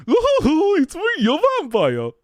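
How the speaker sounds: slow, high put-on vampire. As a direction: drag it out like a vampire. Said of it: "that's a Mario again".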